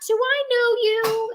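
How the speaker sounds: put-on gorgeous, very high southern old-lady voice. Speaker shows how she answered a man who called her a doomsday prepper; gorgeous Southern old-lady voice. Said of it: "In my prettiest, southernest, most gorgeous old lady voice".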